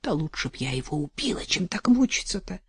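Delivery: put-on lightly tearful old woman; a touch of tears, pleading. Вдова жалуется Арсению на мужа, мягко со слезой. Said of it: "С слезой в голосе протянула она".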